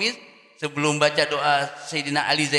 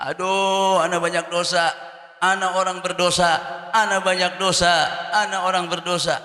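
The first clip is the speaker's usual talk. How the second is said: mock wailing; 5 dB louder than usual. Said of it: "Sambil teriak-teriak".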